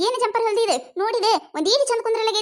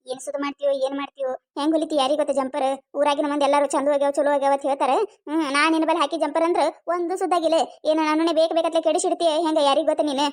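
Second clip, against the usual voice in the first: lower-pitched, resentful grumble; grumbling customer; 5 semitones lower than usual. Acted. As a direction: mutter it back, sulky and low. Quarrel between tailor and customer.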